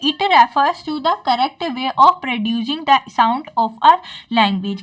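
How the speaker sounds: slow, careful reading aloud of a textbook line; slow dictation reading. Acted. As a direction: dictate it slowly, word by word, for notes. Reads English definition to class. (धीमे-धीमे notes लिखवाने वाली आवाज़)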